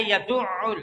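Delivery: "یدعل" with doubled ain clearly sounded; correct pronunciation. Shown as a demonstration. Teacher corrects the word, "یدعل" with full ain. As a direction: hold the throaty ain in "یدعل". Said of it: "یہ لفظ کیا ہے؟".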